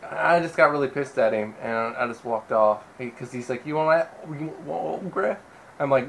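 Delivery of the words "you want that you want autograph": lightly voiced hick comedian; garbled mock hick voice; Larry the Cable Guy. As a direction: mimic a redneck comic, slurring the words. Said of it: "You don't have to do the voice".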